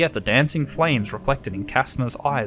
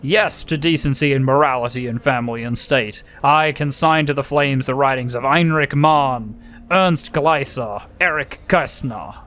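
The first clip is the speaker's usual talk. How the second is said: mild booming speech; booming Goebbels; 3 dB louder than usual. Acted. Goebbels booming to the crowd, mildly. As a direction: orate like a rally speaker. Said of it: "booming over the microphone".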